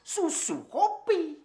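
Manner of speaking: high, slow, whiny mimic of Pakde calling; mimicking the boss. Servant mocking boss's whiny summons for coffee. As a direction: drag out the drink names like a demanding old master. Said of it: "manggil lagi".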